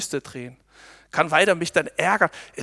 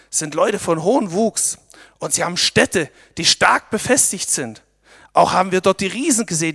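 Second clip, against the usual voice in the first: dramatic report; 6 dB louder than usual. Acted. Kundschafter berichten dramatisch.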